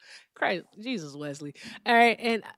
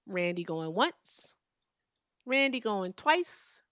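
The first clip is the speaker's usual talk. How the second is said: auctioneer countdown; slower than usual. Acted. Mock auction countdown for silent panelist.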